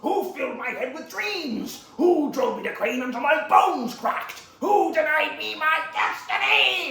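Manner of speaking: high, drawn-out theatrical shouting; loud, slow, hammering each accusation; furious quarrel. Acted. Villain and master argue over destiny, furious.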